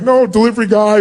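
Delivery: a touch of pleading "no"; mild protest. Retold or imitated. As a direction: brush off her thanks gently. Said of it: "I was like".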